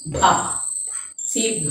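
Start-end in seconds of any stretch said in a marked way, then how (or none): 0.1-0.3 "bha" with a puff of air; aspirated bha. Shown as a demonstration. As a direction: close the lips, release "bha" with a little air. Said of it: "a little air is flowing out".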